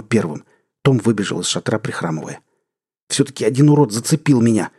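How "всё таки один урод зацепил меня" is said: growl. Acted. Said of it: "прорычал он".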